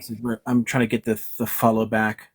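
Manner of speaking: talking while chewing gum; words around chewing gum. Real, not acted. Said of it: "Sorry, I'm chewing gum and walking at the same time".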